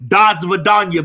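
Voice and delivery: laughing, shouted Das Vidanya; mock Russian farewell. Ex-husband shouting Das Vidanya through laughter. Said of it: "he gonna say".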